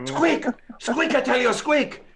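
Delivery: high squeaky mouse voice. Pretend.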